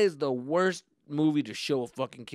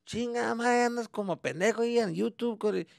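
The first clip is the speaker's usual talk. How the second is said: much higher and louder scolding Mexican dad in Spanish; dad's voice; 12 semitones higher, 9 dB louder than usual. Retold or imitated. Dad scolding son over YouTube and video games, mocking angry rant. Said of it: "My dad called me talking shit".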